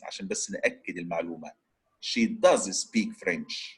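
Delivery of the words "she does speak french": slow, with DOES stressed and stretched; emphatic DOES. Shown as a demonstration. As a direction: lean hard on "does" to insist it is true. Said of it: "Just to emphasize".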